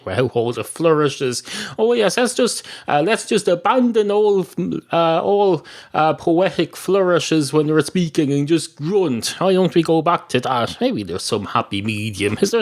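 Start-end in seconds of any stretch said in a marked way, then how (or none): 1.8-10.8 sarcastic. Pretend. Mocking the idea of grunting.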